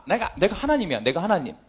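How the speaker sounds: a hint of God quietly asserting himself. Preacher voicing God reassuring Israel, low and quiet. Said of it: "하나님이 뭐라".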